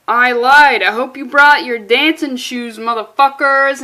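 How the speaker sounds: loud, gleeful villain taunt. Acted. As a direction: announce the trap with a loud sneer. Villain's line read aloud.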